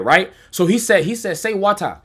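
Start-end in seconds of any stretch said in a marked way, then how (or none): 1.4-2.0 "wata" with open ah and no final r; local pronunciation. Retold or imitated. Guy testing the American newcomer, r-less "wata". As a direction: end "wata" on a plain ah. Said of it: "they say "wata" over there".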